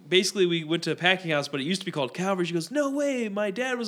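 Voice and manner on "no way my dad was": high-pitched imitation of amazement; retold surprise. Woman hearing her dad's old school named, surprised. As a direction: jump up high on the disbelief.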